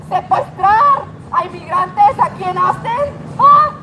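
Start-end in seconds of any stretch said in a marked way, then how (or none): 3.4-3.7 sharp high taunt; loud taunting huh. Real, not acted. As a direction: bark it at him. Taunting officer.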